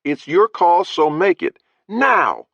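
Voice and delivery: high, tense threatening voice; menacing captor. Acted. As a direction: give the ultimatum hard, bark the last word. Threatening ultimatum in story.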